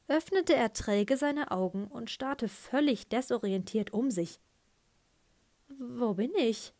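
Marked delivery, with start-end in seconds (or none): 5.7-6.7 slow, mock-dazed question; feigned drowsy confusion. Boy fakes waking up for his father, slow and mock-dazed. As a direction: play at just waking up. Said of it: "Darbietung des ahnungslosen Erwachenden".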